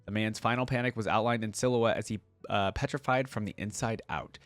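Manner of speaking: measured storyteller's read; audiobook-style narration; story narration. A narrator's reading. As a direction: read the tale aloud with deliberate phrasing. Reading story aloud.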